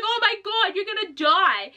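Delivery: high-pitched mock panic; imitating a panicked monster; mock terrified. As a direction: squeak it out like he's scared stiff. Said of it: "he was so terrified".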